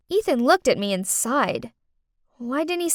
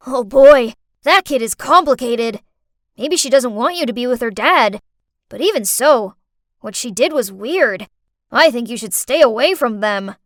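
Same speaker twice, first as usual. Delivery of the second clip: lightly voiced friend, louder delivery; friend's advice; 7 dB louder than usual. Friend on a call advises the carer, lightly voiced concern. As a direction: give firm advice a notch louder.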